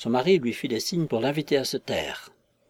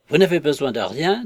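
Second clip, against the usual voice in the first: louder call through the door; 3 semitones higher, 5 dB louder than usual. Acted. Hall calls through the parlour door, louder. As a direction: raise the voice to be heard. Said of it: "d'une voix plus forte".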